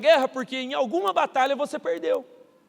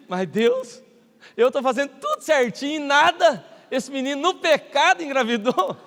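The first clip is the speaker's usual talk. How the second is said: louder, higher protest to God; indignant complaint; 4 semitones higher, 5 dB louder than usual. Retold or imitated. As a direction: let the injustice burst out.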